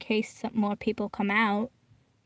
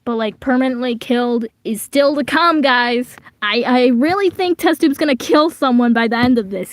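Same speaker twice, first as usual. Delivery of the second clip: louder hyped prediction; excited; 6 dB louder than usual. Real, not acted. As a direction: build the hype to the viewers.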